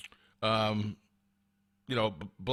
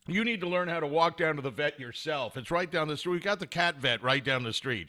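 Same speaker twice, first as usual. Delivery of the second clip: ordinary delivery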